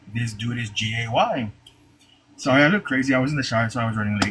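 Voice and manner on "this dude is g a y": very slow, drawn-out, secretive half-whisper. Retelling how a friend half-whispered a remark about the boss: imitating a half-whisper. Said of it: "and he whispered".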